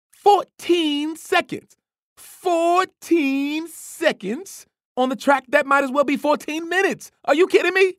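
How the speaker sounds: high, loud, slow incredulous yell; yelling coach. A narrator's reading. Coach yells at the runner about his slow time. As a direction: yell it out in disbelief. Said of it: "Coach yelled out".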